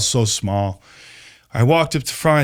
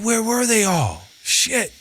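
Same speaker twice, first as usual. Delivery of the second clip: surprised; 8 semitones higher, slower than usual. Retold or imitated. Shock at the filled auditorium.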